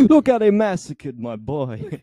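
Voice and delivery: Godfather impression. Godfather quote, slow.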